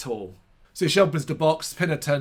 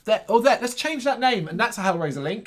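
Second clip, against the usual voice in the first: mock studio exec; 6 semitones higher than usual.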